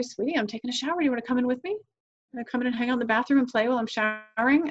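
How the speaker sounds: gentle, inviting mother's voice; loving. Shown as a demonstration. Mother inviting her child in while she showers, lovingly. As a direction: lovingly invite a little one along. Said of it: "you just lovingly say".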